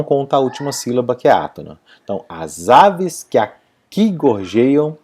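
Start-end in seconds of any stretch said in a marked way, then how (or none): 2.3-5.0 slow rhythmic "as aves que aqui gorjeiam", "que a" fused; declaimed scansion. Shown as a demonstration. Teacher declaiming the verse, slow and rhythmic with "que a" merged. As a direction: recite "as aves que aqui gorjeiam" slowly, pausing before "qui". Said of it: "quando a gente declama".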